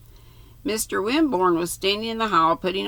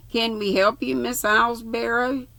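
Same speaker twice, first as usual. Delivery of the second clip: polite; 7 semitones higher than usual. A narrator's reading. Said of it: "asked Stoddard West politely".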